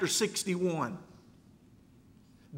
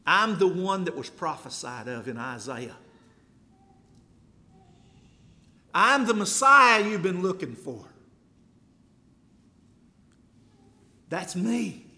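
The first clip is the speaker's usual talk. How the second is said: firm declaration; 3 dB louder than usual. Acted. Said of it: "saying to them in no uncertain terms".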